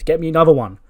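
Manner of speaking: high, loud bossy order; demanding shout. Acted. Alexa sending Ivy for another coffee, demanding shout. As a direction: bark it out high, demanding service.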